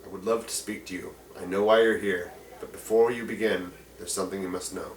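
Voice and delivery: a soft, low plea from an orc elder to strangers; orc man pleading. Acted. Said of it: "and he says".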